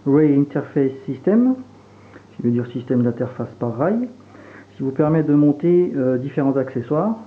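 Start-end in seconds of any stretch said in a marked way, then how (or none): 0.1-1.6 English words in a jokey Franche-Comté American accent, a little slow; light, self-mocking American accent on the English term. Shown as a demonstration. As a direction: say Rail Interface System in a mock American accent, French underneath. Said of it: "avec mon accent américano-franc-comtois".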